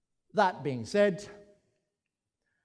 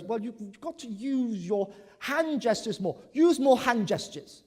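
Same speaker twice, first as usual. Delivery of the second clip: evaluator; 6 semitones higher, 6 dB louder than usual. Retold or imitated. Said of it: "the evaluator goes".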